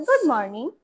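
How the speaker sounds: gentle rising good morning; polite with expression. Shown as a demonstration. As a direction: greet them kindly, গুড lifted in a soft rise. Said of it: "এক্সপ্রেশনের সাথে সুন্দর করে বলতে হবে". (নম্র, মিষ্টি সুরে গুড মর্নিং)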